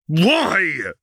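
loud high plea; high and loud anguish; desperate cry. Acted. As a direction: cry out the question.

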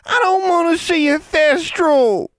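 put-on high, loud tearful child cry; frightened child shouting. A narrator's reading. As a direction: cry it out like a scared boy. Boy wailing in fear.

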